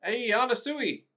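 high-pitched put-on old man. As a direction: call out as a needy old man. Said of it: "the old man is like".

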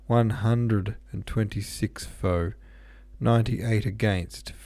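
slow official count, the R in "hundred" softened away; dropped R's. A narrator's reading. Secretary announcing the vote count, dropping his R's. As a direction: read out "four" as "fo-", "hundred" with barely any R. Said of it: "dropping his R's".

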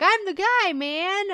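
high, loud bro boast; hammed-up bro swagger; dudebro brag. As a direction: crow it like the party dude. Mocking the flag-dressed dude.

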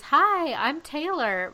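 mock star introduction, swooping up then down; a famous singer. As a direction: greet a crowd as a singer would, imitating. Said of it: "every single tour she goes".

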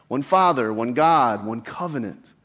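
"one" punched at the start of each phrase, then falling; stress on one. Shown as a demonstration. Pastor pressing the word one on his listeners, fading. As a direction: hit "one" every time, letting it fade to the end. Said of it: "Notice the emphasis on one".

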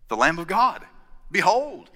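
tentative first take of John the Baptist's cry; first take of John's cry. Retold or imitated. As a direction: announce the Lamb plainly. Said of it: "or something like that".

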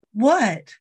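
put-on the sleepwalking boy answering, startled; mock confused boy. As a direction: play the dazed kid. Boy's confused reply voiced.

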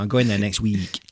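lightly demonstrated Nottingham twang on "week"; Nottingham accent. Shown as a demonstration. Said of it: "if you can get the word week right, you've got Nottingham".

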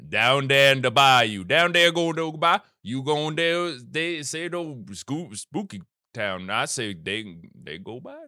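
mock Louisiana accent in a silly high voice; bad Cajun accent. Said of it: "I apologize for C J's impression".

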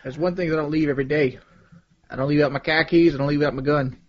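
put-on heavy Boston accent, dropped R's. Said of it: "The Boston accent".

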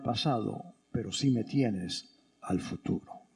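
low, soft, measured comfort; quiet compassionate reassurance; gentle consoling. Acted. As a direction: speak tenderly and low, with pauses. Voicing Jesus consoling Mary.

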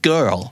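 put-on GIRL with the middle R sounded; American-style GIRL, clear r-sound. Shown as a demonstration. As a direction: curl the R before the L in GIRL. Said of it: "มันจะมี R ที่อยู่กลางคำด้วย".

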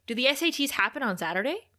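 quick questions climbing in pitch; confused. Real, not acted. Host wonders about SATs on a Saturday, confused. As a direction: puzzle it out aloud, voice rising into bafflement. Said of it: "I'm confused".

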